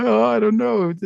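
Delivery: high, unsure mock reply; imitating old-fashioned hesitation; mock hesitant voice. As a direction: sound unsure and evasive. Imitating hesitant past attitude.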